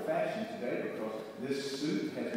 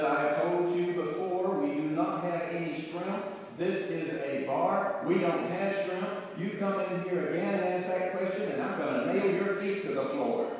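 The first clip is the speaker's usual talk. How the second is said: a touch raised, mock-stern warning; mildly exasperated bartender; 3 semitones higher than usual. Bartender threatening the pestering duck, mildly exasperated. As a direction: act out patience running out.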